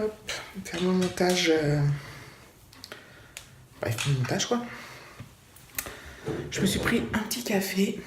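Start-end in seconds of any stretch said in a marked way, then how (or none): 0.0-4.6 trailing off. Real, not acted. Losing her train of thought.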